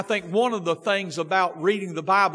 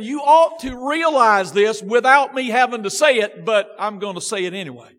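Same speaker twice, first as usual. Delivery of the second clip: a touch of scolding, louder; shaming; 4 dB louder than usual. Retold or imitated. Paul shaming the church into realizing it, lightly scolding. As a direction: mildly scold them for what they should know. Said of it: "he's shaming them into saying".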